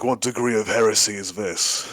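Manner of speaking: gruff space marine. Shown as a demonstration. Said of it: "if I do this, for example".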